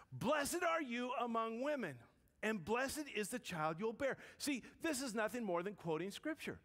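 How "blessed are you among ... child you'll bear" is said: raised, higher proclaiming voice, drawn out at first; loud exclamation. Retold or imitated. Elizabeth greets Mary, filled with the Spirit, mildly loud exclamation. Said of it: "in a loud voice, she exclaimed".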